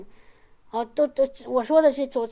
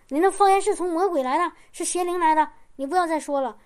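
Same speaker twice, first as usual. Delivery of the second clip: higher and louder, a pastor laying down the law; stern rebuke; 5 semitones higher, 4 dB louder than usual. Retold or imitated. Pastor telling the frightened sister her tongues are from the devil, loud stern rebuke. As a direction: declare it devilish, raising the voice.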